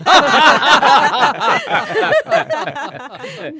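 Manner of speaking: loud high burst of laughter; hearty real laughter; big laugh. Real, not acted. Laughs at own rhino story.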